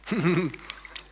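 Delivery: short chuckle. Real, not acted. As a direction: leftover giggle after a blunder. Laughs at own slip.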